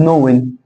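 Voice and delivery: نوين starting straight on n; silent K. Shown as a demonstration. Teacher modelling the past participle, silent K. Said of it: "الكي مش هيتنطق".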